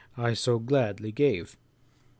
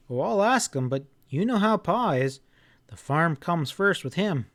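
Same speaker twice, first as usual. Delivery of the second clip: put-on lightly raised, earnest boy; a farm boy answering politely; young boy voice; 4 semitones higher than usual. Boy telling grandpa the crops are gathered, earnest.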